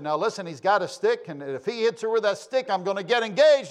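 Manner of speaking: urgent re-enacted phone warning. Retells warning the police dispatcher.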